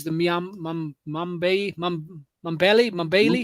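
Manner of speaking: halting, unsure tries at "Mambele", syllable by syllable; struggling to pronounce. Real, not acted. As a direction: grope for the place name. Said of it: "I can't pronounce it".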